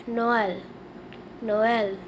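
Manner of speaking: "Noël" as "no-EL" with a falling end; teacher modelling "Noël"; French pronunciation. Shown as a demonstration. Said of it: "We say Xmas in French".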